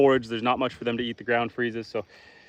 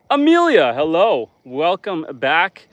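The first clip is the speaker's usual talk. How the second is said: cheery greeting; 3 semitones higher, 6 dB louder, slower than usual. Real, not acted. Greeting returning chat viewer.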